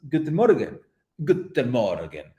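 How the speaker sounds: GUTEN MORGEN with an Italian lilt; accidental Italian accent. Shown as a demonstration. Streamer trying out a German greeting, sounding Italian. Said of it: "why am I sounding Italian?".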